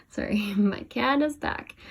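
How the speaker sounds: slow, laughing apology. Real, not acted. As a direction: giggle through the words. Laughing apology about cat.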